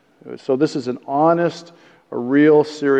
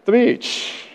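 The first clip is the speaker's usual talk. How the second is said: laughing; 8 semitones higher than usual. Real, not acted. Joking question to God.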